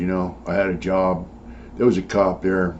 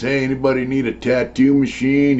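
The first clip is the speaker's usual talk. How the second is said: sergeant hollering an offer, higher pitched; mock calling out; 6 semitones higher than usual. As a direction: lightly imitate a sergeant calling out to everyone.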